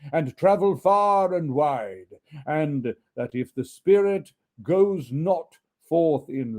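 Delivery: slow, solemn, mournful ghost. Acted. Ghost warning Scrooge, slow and mournful. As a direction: lament his doom slowly.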